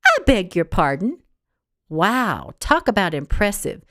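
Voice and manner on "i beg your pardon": a touch of icy offense; clipped indignant pardon; mild stern reproach; affronted. Acted. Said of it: "flicker of fire in Gertrude's eyes".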